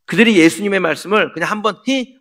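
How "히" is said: brief imitated scornful "hee"; short high mock snicker. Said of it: "하고 비웃고 끝난 게 아니라".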